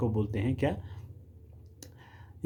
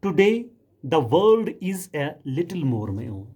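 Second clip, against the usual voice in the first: slow, raised, declaiming the poem line; poem recitation; 2 semitones higher, 3 dB louder, much slower than usual. Shown as a demonstration. Teacher reciting a poem line for the students, slow and raised. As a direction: read the line out slowly like a poem. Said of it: "मैं आपके लिए एक stanza पढ़ लेता हूँ".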